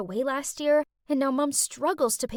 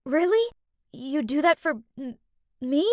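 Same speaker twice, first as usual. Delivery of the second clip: spluttering surprise; 2 semitones higher than usual. Acted. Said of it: "I spluttered out".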